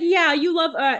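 high, sing-song imitation of Elena; high mocking Elena voice. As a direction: squeak it out like a cheery sister. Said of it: "She said".

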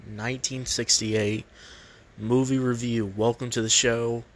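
built-in laptop mic sound; recorded without a proper mic; bad mic quality. Real, not acted. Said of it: "sorry for the bad mic quality".

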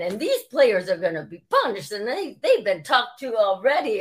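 a hint of a Boston accent; lightly imitated Boston executive apologizing. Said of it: "he had the accent".

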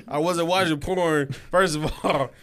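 real crack in the voice, laugh close behind. Real, not acted. Denying a friend's teasing accusation, voice cracking. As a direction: let the voice crack on the denial. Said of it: "See how his voice cracked right there".

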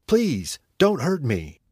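high, frightened pleading; begging. Acted. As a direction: beg for mercy in fear. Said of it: "begged the young man".

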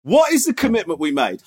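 a hint of a stern teacher; lightly voiced strict teacher; mock teacher. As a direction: press him like a teacher. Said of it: "This is you as a teacher".

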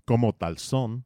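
Spanish accent. Shown as a demonstration. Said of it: "or as they say".

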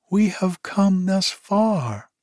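high, slow monkey plea; high-pitched begging monkey; pleading monkey. A narrator's reading. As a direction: beg in a high, drawn-out animal voice. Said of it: "begging him not to send them away".

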